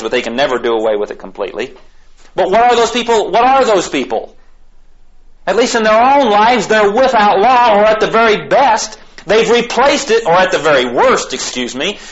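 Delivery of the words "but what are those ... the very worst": high-pitched, forceful preaching; impassioned preaching. Real, not acted. Preacher condemning those without God's law, impassioned. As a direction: drive each point home in a raised voice.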